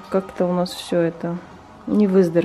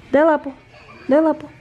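talking to a dog; 5 semitones higher than usual. Real, not acted. Asking dog for paw.

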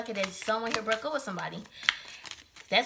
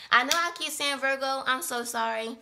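flustered exclamation; 4 semitones higher, 5 dB louder than usual. Real, not acted. Laughing at own slip.

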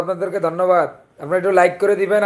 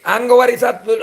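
Chandpur dialect; 4 semitones higher than usual. Shown as a demonstration. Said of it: "চাঁদপুরিয়া ভাষায় কথা বলেন ভাইয়া".

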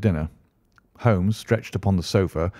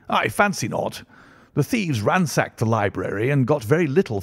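higher-pitched, animated character voice for the Colonel; genial country Colonel; 4 semitones higher than usual. Acted. Colonel tells his guests of a local break-in, chatty and higher. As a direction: swing the pitch up as you share local news.

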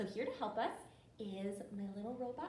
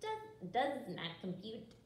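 neutral robot monotone; 2 semitones lower than usual. Shown as a demonstration. Teacher ending the verse, robot voice. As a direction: say it evenly like a machine. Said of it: "Practice your robot voice".

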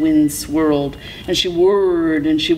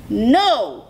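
high, stretched-out no; shouted refusal; 6 semitones higher than usual. A narrator's reading. Coyote refuses Hummingbird, shouting. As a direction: cry no high and stubborn. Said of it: "shouted Coyote".

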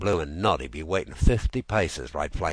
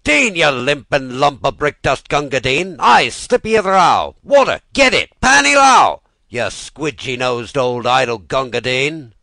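loud, much higher barracks bellowing; soldiers shouting; 8 semitones higher, 14 dB louder than usual. Acted. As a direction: yell at him to hurry with water. Soldiers yelling orders at Gunga Din.

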